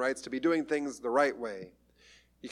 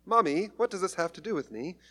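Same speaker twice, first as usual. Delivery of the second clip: put-on whiny child; 3 semitones higher than usual. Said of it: "he's not a little child".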